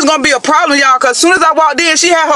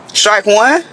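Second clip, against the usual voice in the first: incredulous echo; 5 semitones lower than usual. Real, not acted. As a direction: repeat it back, stunned. Echoing her date in disbelief.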